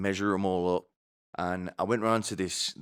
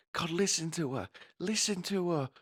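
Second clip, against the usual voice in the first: nagging nana; 11 semitones higher, 3 dB quieter than usual. Retold or imitated. Nana's ghost voiced behind.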